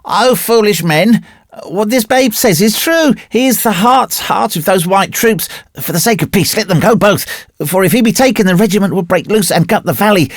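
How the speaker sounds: high-pitched, alarmed plea; crying out urgently. A narrator's reading. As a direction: warn the others urgently, pitched well up. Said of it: "Another man joined the conference, crying".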